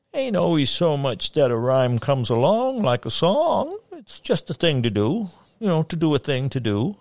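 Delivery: high, lilting folksy man; sing-song voice. A narrator's reading. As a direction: muse in a high singsong. Fagin voiced.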